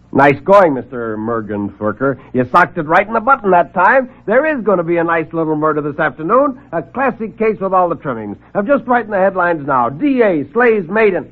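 high, mock-impressed wisecracks; sarcastic reporter. Reporter mocking the little man's murder tip, sarcastic and high. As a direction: tease him like a tall tale.

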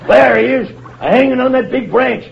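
high-pitched calling out orders; captain calling urgently to a crewman overboard; urgent command. Acted. Captain orders rescue from river.

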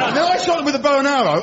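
imitating flat tone on "shot them with a bow and arrow"; offhand mock retelling; mock matter-of-fact. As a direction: say "bow and arrow" as if it were nothing. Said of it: "I love the way from the intonation".

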